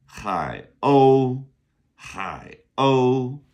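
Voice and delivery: "Hai o" with a strong airy H, o held high; aspirated H. Shown as a demonstration. Teacher showing how to say seagull, aspirated H. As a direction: model "Hai o", puff the H and sustain a high level o. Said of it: "Another aspirated H".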